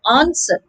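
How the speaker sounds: "answer" with the broad British AH, no R; British pronunciation. Shown as a demonstration. Teacher contrasting the British version with the American one. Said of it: "in British English, it's pronounced".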